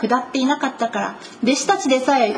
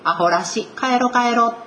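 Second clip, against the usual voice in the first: Osaka dialect. Retold or imitated. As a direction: toss it off in Osaka dialect like bored listeners. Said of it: "大阪弁で言うと".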